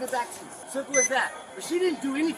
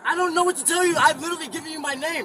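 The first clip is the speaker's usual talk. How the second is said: raised, sharp voice in frustration; yelling; 5 semitones higher, faster than usual. Real, not acted. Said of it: "Why are you yelling?".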